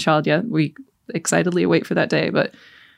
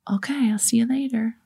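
whispered goodbye, no voice at all; 4 semitones higher, 4 dB quieter than usual. Retold or imitated. Son whispering goodbye to mom, whispered. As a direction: breathe it out softly like a secret.

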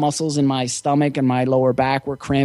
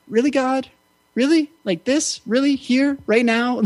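much higher, incredulous complaint thrown at the sky; comic mock-despair, pitched way up; exasperated plea to God; 10 semitones higher than usual. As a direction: ask God in disbelief, why now. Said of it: "leaning back and going".

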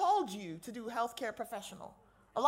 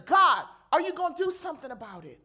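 pleading cry; 3 semitones higher, 7 dB louder, faster than usual. Retold or imitated. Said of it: "He says".

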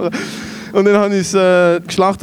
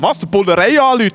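put-on slightly raised, incredulous teen retort; retold disbelief, lightly acted; mock alarmed echo; 3 semitones higher than usual. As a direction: throw it back as a startled question.

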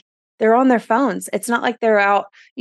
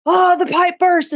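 mock surprise; 10 semitones higher, 4 dB louder than usual. Parents voiced, sudden realisation.

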